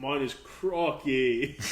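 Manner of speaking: slow, drawn-out mock Australian; Australian accent. Host offers his own attempt, slow Australian accent. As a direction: stretch it out in a light Australian accent. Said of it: "Do your best Australian accent".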